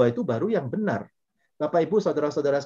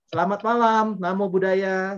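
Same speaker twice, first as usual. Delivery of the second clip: raised, sustained on-air hello; smiling radio greeting; 5 semitones higher, 3 dB louder, slower than usual. Shown as a demonstration. Radio host takes a listener's call, smiling greeting. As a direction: greet listeners with an audible smile. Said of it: "kita pasti selalu tersenyum".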